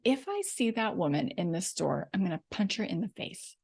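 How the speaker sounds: quietly plotting revenge; hushed mock menace; muttered threat. Angry thought in the store.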